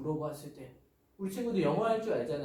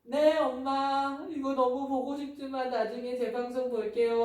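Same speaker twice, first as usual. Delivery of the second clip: put-on obedient child; 6 semitones higher, 3 dB louder, slower than usual. Obedient child answers mother nicely.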